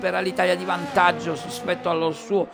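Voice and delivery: fast race commentary, rising with the action; live play-by-play. Real, not acted. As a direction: call the qualifying lap live.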